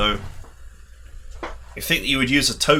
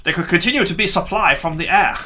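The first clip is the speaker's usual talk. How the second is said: higher pitch, breaking into a laugh; amused misreading; 7 semitones higher than usual. Real, not acted. Player mocking a typo in the briefing, amused and laughing. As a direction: read it back, cracking up. Cracks up at misworded game text.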